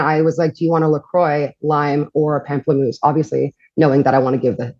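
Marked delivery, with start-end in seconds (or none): 0.5-3.0 LaCroix and pamplemousse said the American way, not the French way; American pronunciation. Retold or imitated. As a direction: anglicize pamplemousse on purpose. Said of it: "pronouncing those words in an American accent".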